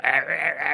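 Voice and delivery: imitated throat-bubble croaking; short repeated croaks, imitated; frog-like croak. Imitating the man with throat bubbles, frog-like croaks. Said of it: "It looked like he was a frog".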